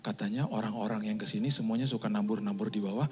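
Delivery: wife whispering to her husband that the bill was paid. Retold or imitated. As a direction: lean in and whisper the good news. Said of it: "Tiba-tiba dia bisik".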